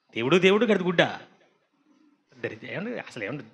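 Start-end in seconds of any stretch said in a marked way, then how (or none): 0.1-1.2 దేవుడు, దేవుడు echoed with a rising scornful tune; mocking question. Shown as a demonstration. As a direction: throw the oath back as a question. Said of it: "ఏంటి". (దేవుడు, దేవుడు అని ఎగతాళిగా ప్రశ్న)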